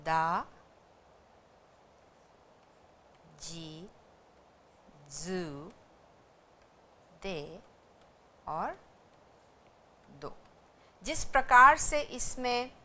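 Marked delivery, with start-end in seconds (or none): 0.0-10.3 दा, जी, जू, दे, दो each set apart by long pauses; slow syllable drill. Shown as a demonstration. Teacher demonstrating syllables slowly while writing them. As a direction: say each syllable once, then wait. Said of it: "अब कैसे बनाते हैं आपको बता दें हम".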